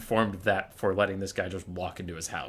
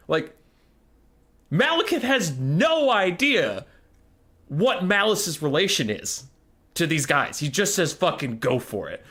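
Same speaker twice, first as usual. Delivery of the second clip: exasperated rant; 6 semitones higher than usual. Real, not acted.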